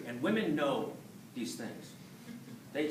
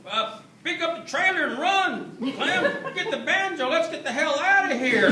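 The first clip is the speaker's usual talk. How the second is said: much higher, louder hick father voice; white guy dad voice; 13 semitones higher, 9 dB louder than usual. Retold or imitated. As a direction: yell like a panicked redneck dad. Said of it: "It sounds like this".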